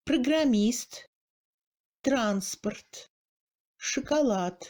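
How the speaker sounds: Programmiste, transport in Russian, unstressed O shrunk to a schwa; O as mute E. Shown as a demonstration. Teacher shows second-degree reduction, O as schwa. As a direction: chocolat as Russian "shəkalat", first vowel barely there. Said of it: "on entend un E muet".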